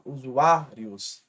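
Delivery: Usuários bem devagar, á de ários forte; stressed syllable shown. Shown as a demonstration. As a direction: alongue Usuários marcando o á. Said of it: "a penúltima é a mais forte". (Usuários lento, penúltima forte)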